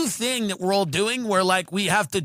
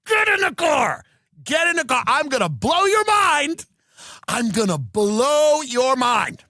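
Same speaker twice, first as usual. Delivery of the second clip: mock excited shout; 3 semitones higher than usual. Comic to a friend, hammed-up excitement. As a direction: sell the tour breathlessly. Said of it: "So you're telling me".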